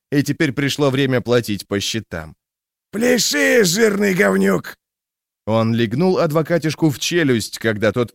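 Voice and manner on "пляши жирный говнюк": barking shout. A narrator's reading. Thug repeats order.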